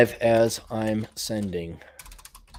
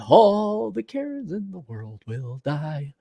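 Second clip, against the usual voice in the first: quiet repeat; 3 semitones higher, 7 dB quieter, slower than usual. Shown as a demonstration. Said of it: "repeats line quieter".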